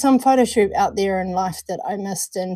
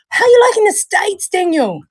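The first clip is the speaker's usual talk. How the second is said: higher, louder friendly question; bright greeting; 8 semitones higher, 4 dB louder than usual. Real, not acted. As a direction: greet him with a big lift.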